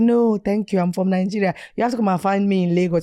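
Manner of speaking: put-on Nigerian accent; worst Nigerian accent. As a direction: brush him off in an exaggerated Nigerian accent. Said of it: "I put on the worst Nigerian accent".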